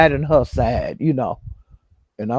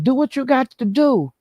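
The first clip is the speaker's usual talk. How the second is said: mock dismissive; 9 semitones higher than usual. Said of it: "he was saying".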